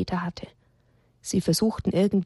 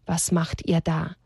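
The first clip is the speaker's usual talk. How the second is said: understated, drawn-out scornful quote; quoting a dumb question. Retold or imitated. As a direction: repeat the silly question slowly. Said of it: "fragen dann noch so dumm".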